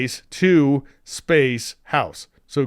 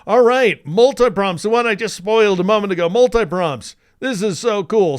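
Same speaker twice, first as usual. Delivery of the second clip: excited; 6 semitones higher, 4 dB louder than usual. Real, not acted. Enthusiastic tutor introduces multi-prompts.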